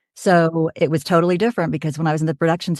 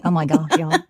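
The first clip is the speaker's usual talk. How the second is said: Oklahoma drawl. Shown as a demonstration. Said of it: "I can talk like that".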